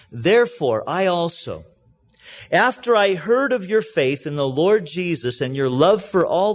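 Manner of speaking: earnest, steady Bible reading with a preacher's lift; scripture reading. Acted. Pastor reading Paul's prayer to the congregation, earnest scripture reading. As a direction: read Paul's prayer out to the church, unhurried.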